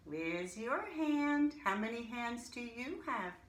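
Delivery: playful teacher question. Shown as a demonstration. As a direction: coax the kids to show hands. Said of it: "teacher engaging young kids".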